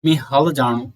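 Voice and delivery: lightly Garhwali, हल with the flapped ल; a hint of Garhwali speech; Garhwali phrase. Shown as a demonstration. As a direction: quote "मैं हल जानू" the Garhwali way, ल between ला and ड़ा. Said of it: "जैसे आपने गढ़वाली में सुना होगा".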